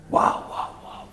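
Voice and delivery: soft unvoiced barking noises; imitated barking. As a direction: bark it out breathily, like a dog. Imite l'aboiement du possédé. (aboiements imités, soufflés)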